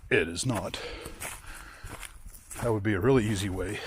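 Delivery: winded from the uphill climb; talking between breaths. Real, not acted. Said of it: "Sorry, I'm out of breath".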